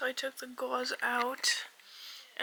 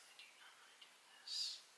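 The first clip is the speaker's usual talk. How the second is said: sad; 16 dB quieter than usual. Real, not acted. Dreading surgery, repeated.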